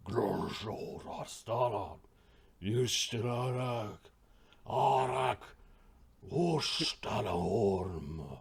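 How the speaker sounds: slow growling roar in Draconic; a creature bellowing in a strange tongue; booming Draconic voice. Acted. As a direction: boom it out, drawing each word long. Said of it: "you hear this booming voice in Draconic".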